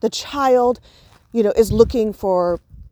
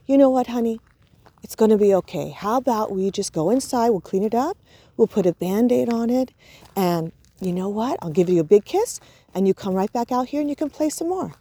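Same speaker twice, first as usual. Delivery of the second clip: calm, steady reassurance; smooth the child's feelings out. Shown as a demonstration. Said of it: "And you calm your voice down".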